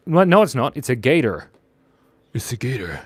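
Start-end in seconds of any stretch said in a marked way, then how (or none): 2.3-3.0 soft whispered aside. Real, not acted. Streamer correcting alligator to gator, whispered aside.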